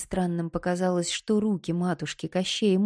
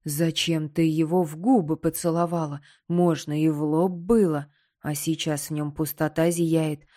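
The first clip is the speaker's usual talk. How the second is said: agitated skull. Acted. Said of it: "от волнения".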